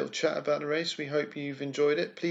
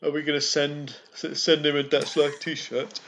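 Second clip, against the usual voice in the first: words stretched by a yawn. Real, not acted. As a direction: talk through a yawn. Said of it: "Oh, sorry, I'm yawning".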